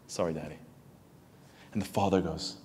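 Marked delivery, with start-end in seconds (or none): 0.1-0.6 put-on small child's voice. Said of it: "Like that".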